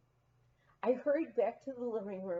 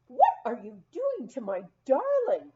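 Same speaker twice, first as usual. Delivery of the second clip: a louder, lightly acted cry of alarm; imitating the dowager calling out in dismay; mild mock cry; 3 semitones higher, 8 dB louder than usual. Dowager calling out over her poodle, a mild mock cry. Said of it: "the dowager cried behind me".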